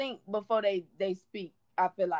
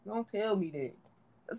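slow and soft; 3 semitones lower, 5 dB quieter, much slower than usual. Shown as a demonstration. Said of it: "I can't even talk".

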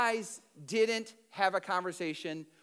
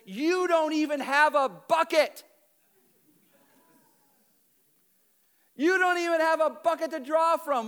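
raised, louder, scoffing challenge; indignant retort; 4 semitones higher, 3 dB louder than usual. Acted. Samaritan woman scoffing at Jesus, loud and indignant. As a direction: push back hard, almost mocking.

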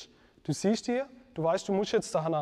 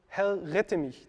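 slow, earnest plea; slow prayerful plea for rescue; slower than usual. Retold or imitated. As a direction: say it slowly as a prayer. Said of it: "das ist wie ein Gebet".

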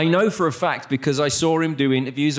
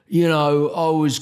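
put-on Cockney accent; 3 semitones higher, 3 dB louder than usual. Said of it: "he still talks like a fucking London Cockney".

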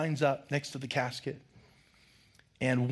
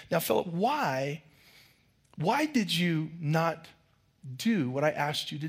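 patient teacher; 2 semitones higher than usual. Retold or imitated. Teacher questioning Philip.

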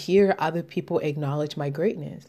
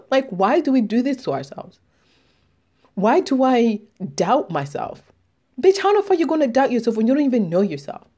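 heated rant; 4 semitones higher than usual. Real, not acted. Heated rant peak, pitch up.

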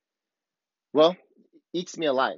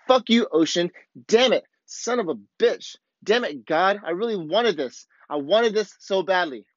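a controlled taste of a cursing outburst; demo of releasing rage. Shown as a demonstration. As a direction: vent the rage at the ocean, cursing but holding back. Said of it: "I'll give you a little taste of it".

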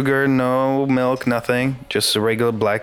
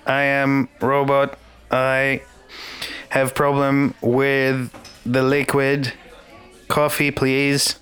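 robot voice; slower than usual. Pretend. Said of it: "Why are you talking like that?".

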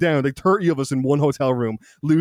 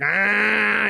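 mock scream; 6 semitones higher than usual. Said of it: "like, screaming".

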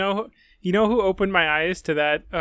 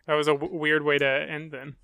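laughing. Real, not acted. Laughing at the odd ending.

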